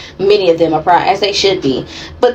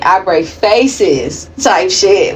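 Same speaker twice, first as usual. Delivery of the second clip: slow, drawn-out tough quote; a lightly voiced tough-girl brag; quoting Gutta K; much slower than usual. Reader quoting Gutta K's brag to viewers, slow and tough. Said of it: "like she said".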